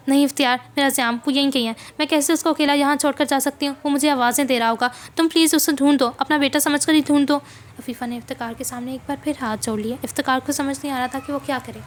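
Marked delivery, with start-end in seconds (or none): 0.1-7.4 louder, urgent begging; desperate pleading mother. Acted. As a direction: implore him to find your son. Afifa pleading with Iftikhar. (बेबस माँ की ज़ोरदार गुहार)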